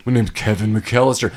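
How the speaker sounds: mock slowed-tape voice; slowed-down caller. Kevin giving his name on the call, mock slowed-down voice. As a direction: imitate a tape-slowed grown-up lightly. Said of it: "he slows down".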